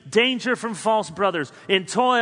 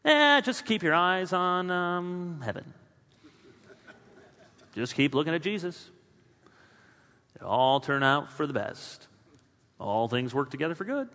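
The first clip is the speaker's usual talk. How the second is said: dismissive. Pretend. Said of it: "There's a way to say all of this".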